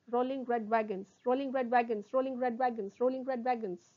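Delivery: brisk repeats chained without pauses; sped-up tongue twister. Shown as a demonstration. Teacher drills the twister for students, speeding up. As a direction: roll straight into each repeat. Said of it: "speed up".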